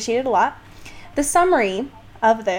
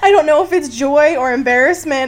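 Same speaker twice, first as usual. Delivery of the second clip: teary laughter; 3 semitones higher, 6 dB louder than usual. Real, not acted. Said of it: "tears on my laptop".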